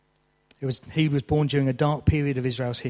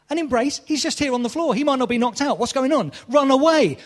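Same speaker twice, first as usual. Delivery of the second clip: high, loud disbelieving rant; mock their ridiculous choice; ranting at film characters who hug instead of flee; incredulous at the film; 11 semitones higher, 5 dB louder than usual.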